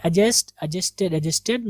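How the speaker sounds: एडजस्ट and एडजस्टेड with no d after the first vowel; silent d. Shown as a demonstration. Teacher repeating corrected forms for students, silent d. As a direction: say एडजस्ट as "a-jest". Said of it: "डी बिल्कुल भी नहीं पढ़ेंगे".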